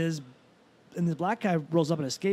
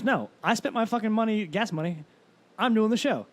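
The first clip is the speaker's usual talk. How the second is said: defiant insistence; 5 semitones higher than usual. Retold or imitated. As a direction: dig in and refuse to leave. Comic insisting to Klan.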